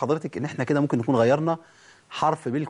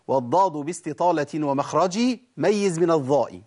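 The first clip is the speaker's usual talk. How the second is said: recited verse; slower than usual. Shown as a demonstration. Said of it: "حتى ابن الجزري يقول".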